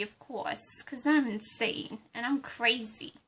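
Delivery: lightly put-on Harley Quinn accent; a hint of Harley Quinn's Brooklyn accent; bubbly sidekick in a mild Harley Quinn accent.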